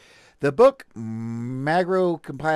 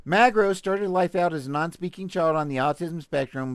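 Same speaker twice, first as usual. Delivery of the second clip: mock news; 2 semitones higher than usual. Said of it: "Let's read this again".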